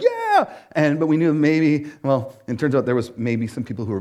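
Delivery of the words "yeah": mock cheer. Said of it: "everyone was gonna be like".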